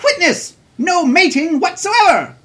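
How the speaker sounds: high, bright announcer pitch; radio ad read. Acted. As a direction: sell the zoo like a cheesy radio spot. Reads mock zoo radio ad.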